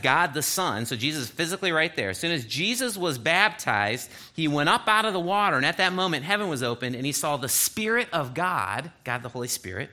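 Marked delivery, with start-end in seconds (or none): 2.1-8.9 reading the verse aloud with a lift; a light scripture reading voice. Acted. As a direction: proclaim the Bible passage to the class.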